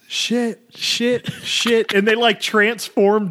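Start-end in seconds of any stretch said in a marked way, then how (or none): 0.1-1.9 high, hammed-up "shit," as the English version; mock dubbed English. Showing the switch from German to English, high hammed-up. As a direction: bark "shit." like the translated film line. Same line turned English.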